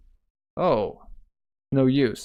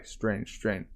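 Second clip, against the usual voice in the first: quiet muttering; 3 semitones lower, 9 dB quieter than usual. Acted. Muttered puzzlement.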